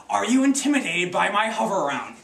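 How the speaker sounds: mock-threaten as a wheelchair-bound villain; evil genius. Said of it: "isn't it better when they're in a wheelchair".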